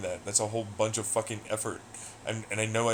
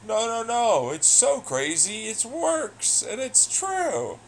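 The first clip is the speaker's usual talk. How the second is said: mock insistent commenter; 12 semitones higher, 4 dB louder, slower than usual. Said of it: "Just like fucking".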